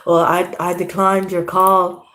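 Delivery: lightly voiced sulking boyfriend; mimicking boyfriend. Retelling what the boyfriend said, slow sulky mimic. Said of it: "or however he talks".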